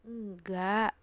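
firm no. Retold or imitated. Narrator insisting to friend he heard a woman, firm. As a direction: cut him off with a firm no.

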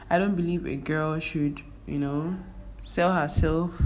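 ordinary talk

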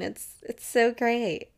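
slow, deadpan sarcasm; sarcastic. Real, not acted. Joking to viewers that adulting is great, sarcastically. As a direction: drag it out, clearly not great.

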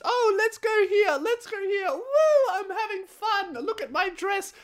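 high airy falsetto, hammed-up and giddy; mock girly voice. Mocking the girls on their night out, high squealing falsetto. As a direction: squeal it like a carefree party girl. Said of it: "Girls are just".

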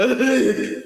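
imitated ugly crying; mock sobbing. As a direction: fake a big blubbering cry. Imitates the sobbing she doesn't mean.

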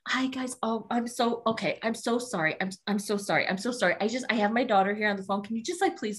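imitating a flustered, apologetic friend; mock nervous babble, piling up apologies; freaking out. Retelling friend asking stars to greet her daughter, mildly flustered. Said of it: "she's freaking out".

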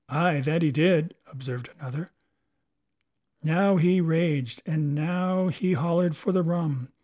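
put-on uneasy old seaman; haunted pirate storyteller. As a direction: tell it like a ghost story among pirates. Another recalls Flint's death.

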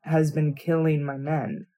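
slow, soft and threatening; menacing lord, barely above a murmur; Roose Bolton voice. Acted. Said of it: "Do your Roos voice".

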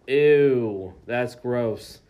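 loud, drawn-out mock revulsion; mock disgust. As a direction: recoil loudly from a gross story. Retold disgusted reaction.

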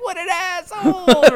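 high and loud, cracking up mid-line; laughing mock outrage. Joking about her ex to cheer the bartender, laughing. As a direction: blurt it through laughter. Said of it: "And I was like".

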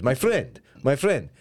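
imitated Middle Eastern "my friend"; Middle Eastern accent. Host mimicking Middle Eastern people living here, Middle Eastern accent. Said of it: "a very Middle Eastern thing to say".

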